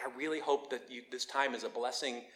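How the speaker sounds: soft, gentle well-wishing; quiet, heartfelt blessing; loving, sincere. Acted. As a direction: say it softly and mean it. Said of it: "the real loving, sincere thing".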